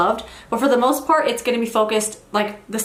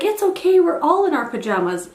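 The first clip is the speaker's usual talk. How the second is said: "It's okay" pitched higher, breezy neighbor; imitating cheery neighbor; 6 semitones higher than usual. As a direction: wave off her worry like the cheerful neighbor. Neighbor reassuring her, retold.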